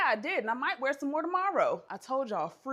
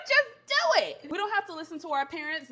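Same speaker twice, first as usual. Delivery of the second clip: laughing exhortation; 6 semitones higher, 5 dB louder than usual. Real, not acted. Woman urging girl to use free will, laughing. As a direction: egg them on while cracking up.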